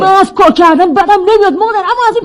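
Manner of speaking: irritated, insistent complaint; mildly angry objection; annoyed protest. Acted. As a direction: grumble back at a nagging mother. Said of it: "اینقدر عصبانی بشه".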